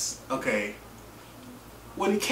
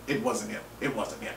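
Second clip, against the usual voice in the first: softer, trailing off; much softer closing echo; fading repeat; 5 semitones lower, 10 dB quieter than usual. Real, not acted. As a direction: let it die away.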